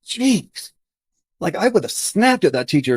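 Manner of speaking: high-pitched, amazed exclamation; one astonished word, pitched well up; retold moment of disbelief; amazed reaction. Amazed at boss's patient handling.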